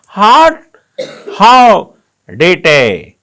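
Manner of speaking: a hint of an Englishman's accent, loud; mock English accent. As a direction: imitate English speakers, lightly. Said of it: "अंग्रेज बोलता". (अंग्रेज़ी लहजे की हल्की नकल)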